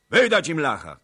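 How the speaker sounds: high, loud cry to hand him over; shouted. A narrator's reading. Czarnota shouting to surrender the Pole, loud. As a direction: yell it at the council. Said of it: "krzyknął Czarnota".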